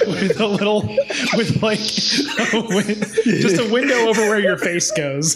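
talking through giggles; laughing. Real, not acted. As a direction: laugh while describing it. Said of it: "Oh, yeah".

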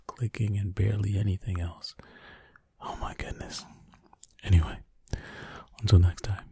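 hushed running commentary; ASMR whisper. Acted. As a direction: whisper close and intimate while solving.

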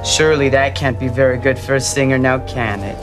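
sarcastic fake sweetness. Rival gloats with fake sweetness.

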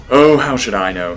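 exasperated, with a short laugh. Acted. Mayor brushing off the murder question, exasperated laugh. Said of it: "he said in exasperation".

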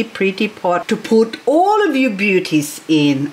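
ordinary talk

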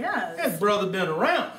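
mild presidential speech voice with stately pauses; Barack Obama impression. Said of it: "Thank you, Barack".

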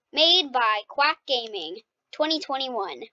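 slow mock attribution; quote credit. Shown as a demonstration. Gamer crediting her own quote, slow and grand. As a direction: sign it off like a caption. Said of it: "that should be a quote".

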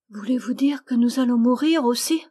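put-on a crying child suddenly asking; high child's urgent question; tearful little girl. A narrator's reading. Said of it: "demanda l'enfant, cessant brusquement de pleurer".

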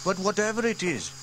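put-on high boy voice, unsure; young boy James shrugging it off. A narrator's reading. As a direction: voice the young brother. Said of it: "said James".

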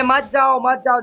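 loud begging to stay; pleading call. Real, not acted. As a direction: call out to stop him going. Begging a teammate not to leave.

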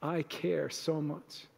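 mock exasperated Jesus. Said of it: "Jesus rolling his eyes".

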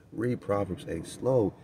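slow right down to show how to read it; said slowly. Shown as a demonstration. Preacher shows listeners how to read Proverbs, slowly. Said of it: "Read Proverbs eight very slow".

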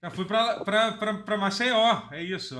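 slurring, stumbling over words. Real, not acted. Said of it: "Eu tô muito bêbado agora".

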